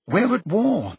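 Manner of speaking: high-pitched grave announcement; urgent warning. A narrator's reading. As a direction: raise the pitch and declare it urgently. Urgent warning to Prime Minister.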